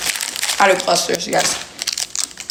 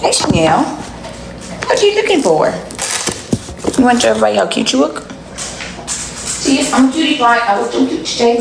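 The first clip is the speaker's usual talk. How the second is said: cooing at the dog. Real, not acted. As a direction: coax the dog sweetly. Talking to her dog Chanel.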